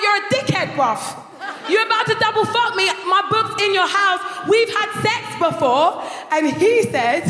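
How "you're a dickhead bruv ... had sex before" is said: mock angry telling-off. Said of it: "I'm like".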